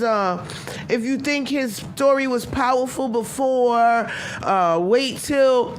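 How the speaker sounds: mock dramatic speech. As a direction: draw it out like a grand warning, mockingly. Mockingly acts out the wife's speech.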